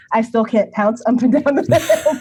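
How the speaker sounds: laughing through the words. Real, not acted. Admitting to the interviewer she still can't, laughing. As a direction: giggle while admitting it.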